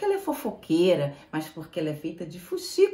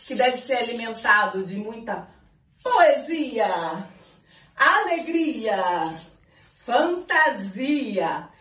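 ringmaster; 2 semitones higher than usual. Acted. Continues ringmaster announcement.

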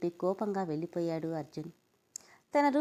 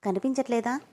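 mocking retort, a bit higher; sarcastic; 4 semitones higher, 4 dB louder than usual. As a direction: sneer the question back. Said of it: "వెటకారంగా". (వెటకారంగా)

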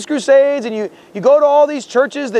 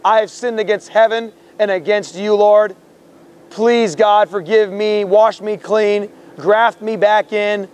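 humble prayer. Shown as a demonstration. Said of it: "You must humble yourself and say".

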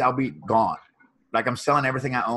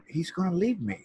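retold bawling; 5 semitones higher, 3 dB louder than usual. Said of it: "just bawling".

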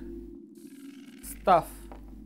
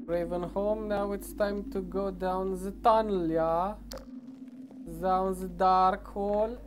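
put-on German accent. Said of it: "Why am I speaking with a gay German accent?".

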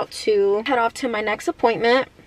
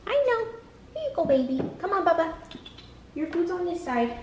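annoying animal voice; 8 semitones higher, 8 dB quieter than usual. Real, not acted. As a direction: coo gently at the dog. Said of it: "their annoying, like, animal voice".

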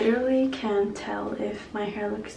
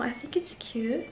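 whisper; 6 dB quieter than usual. Real, not acted.

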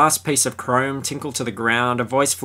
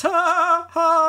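high hammed-up grandpa cackle; mock laugh; slower than usual. Retelling the grandpa scene, high mock cackle. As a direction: cackle it out like a smug old man. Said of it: "And he goes".

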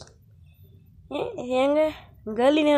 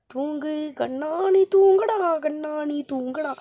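lulling to sleep; 2 semitones higher, 4 dB quieter, slower than usual. Acted.

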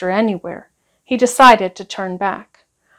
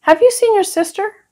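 bright, higher motherly question; higher-pitched mum asking; mummy's voice; 11 semitones higher than usual. A narrator's reading. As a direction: call out kindly like a mum looking for her child. Mother calling for her child.

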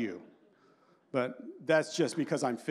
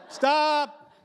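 laughing stop; 9 semitones higher, 6 dB louder than usual. Real, not acted. Cracking himself up.

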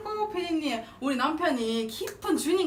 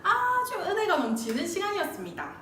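announcer voice; 3 semitones lower than usual. Acted. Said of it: "아나운서 지망생 아니었겠어요?".

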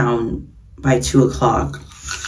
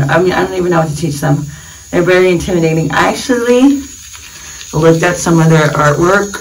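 talking through a toothbrush; while brushing teeth. Real, not acted. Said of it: "sorry for brushing my teeth".

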